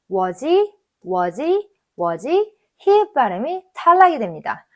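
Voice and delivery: was I, was he, was she run together as one word; linked contractions. Shown as a demonstration. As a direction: glide was into the pronoun with no gap. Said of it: "더 줄여주셔야 돼요". (줄여서 이어 읽는 발음 시범)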